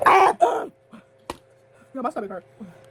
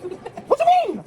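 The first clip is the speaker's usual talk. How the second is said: slow, high laughing question; 9 semitones higher, slower than usual. Real, not acted. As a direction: stretch it out through laughter. Laughing, drawn-out teasing.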